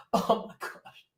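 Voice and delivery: breathless whisper of despair; weary whisper; whispered exasperation. Real, not acted. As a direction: sigh it out, voiceless. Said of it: "I'm so tired of these people".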